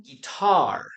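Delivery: "guitar" said clearly with stress on "tar"; model pronunciation. Shown as a demonstration. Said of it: "the pronunciation of this word is".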